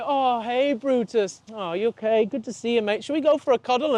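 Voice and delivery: theatrical welcome. Shown as a demonstration. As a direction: gush over the dog like a long-lost friend. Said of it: "we're, like, theatrical with it".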